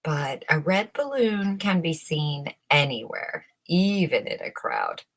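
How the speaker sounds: plain reading voice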